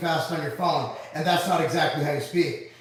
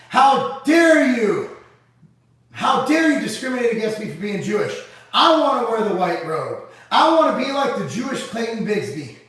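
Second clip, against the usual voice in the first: mock indignant shout; 3 semitones higher, 5 dB louder than usual. Joking streamer telling the Klan off, loud mock indignant shout. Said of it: "I said".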